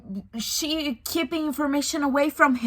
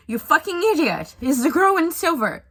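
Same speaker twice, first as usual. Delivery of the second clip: mock yell, higher and louder; exasperated brother; 5 semitones higher, 5 dB louder than usual. Colin telling off his brother Benedict in a loud mock yell. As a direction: blurt it like a fed-up sibling.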